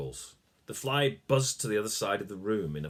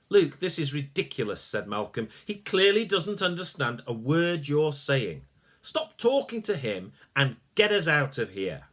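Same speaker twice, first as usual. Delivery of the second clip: put-on louder, exasperated old man; impatient scolding; 5 semitones higher, 4 dB louder than usual. Malcolm scolding Luke to get them out, impatient. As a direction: snap at him to stop wasting time.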